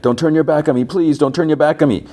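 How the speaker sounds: high-pitched imitated plea; pleading. Acts out Alice begging not to be abandoned.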